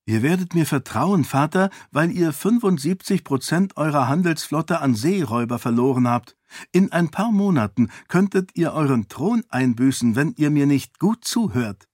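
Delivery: parry his threat with ease; calm defiant princess. Acted. Sarene lectures the king. (gelassen herausfordernd)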